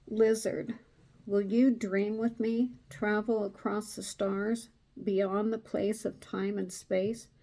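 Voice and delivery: measured card-reading voice; reading aloud. Acted. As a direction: read it like an invitation. Reads a card invocation.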